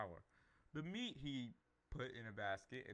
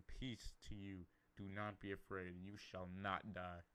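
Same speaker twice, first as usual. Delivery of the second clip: reassuring; 4 semitones lower than usual. Acted. The Lord comforts Gideon.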